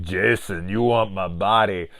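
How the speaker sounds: lightly voiced parody of a bodybuilder woman; mock a butch bodybuilder seductress.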